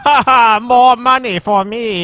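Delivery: cackling money-grubbing villain; slow gloating villain laugh; sneering panto villain. Retold or imitated. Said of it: "Cackling maniacally".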